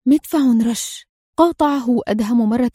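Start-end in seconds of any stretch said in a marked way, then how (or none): 0.0-1.0 slow, stunned exclamation; astonished cry. A narrator's reading. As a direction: blurt it out in shock. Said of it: "هتف فابيو في دهشة".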